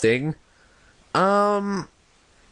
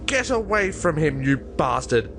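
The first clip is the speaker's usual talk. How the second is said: lightly acted angry yell at the monster; a touch of a furious mother snapping; snapped; 3 semitones higher than usual. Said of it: "I snapped".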